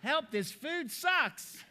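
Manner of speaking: high, very slow whining plea; mock Andrew Locke. Speaker mimics a colleague complaining about food in a slow high whine. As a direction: whine it out like a helpless cry.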